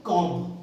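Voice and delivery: कॉम्ब said as "kom", ending on m; silent b. Shown as a demonstration. Teacher giving students the word for comb, silent b. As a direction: leave the b off कॉम्ब. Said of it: "उसको हम क्या बोलते हैं".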